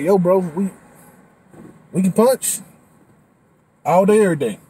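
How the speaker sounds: loud, hyped boast; cocky body voice. Retold or imitated. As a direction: brag like a pumped-up bro. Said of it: "my body's like".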